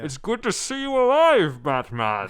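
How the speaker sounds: high, booming luchador wrestler boast. Retold or imitated. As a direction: ham it up like a masked luchador. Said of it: "I'm gonna take a crack at this voice".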